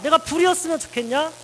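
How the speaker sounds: God's challenge. Acted. God challenging Elijah, loud and high. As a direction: hit 내가 hard and high. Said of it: "이렇게 얘기하고 있는 거죠".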